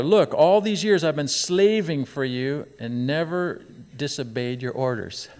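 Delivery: upset son. Retold or imitated. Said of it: "He's upset".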